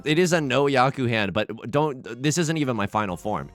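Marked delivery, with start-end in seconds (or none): 2.2-3.5 anime villain voice. Pretend. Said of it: "anime villain voice".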